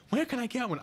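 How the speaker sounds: very high, mock-eager homeowner; eager question.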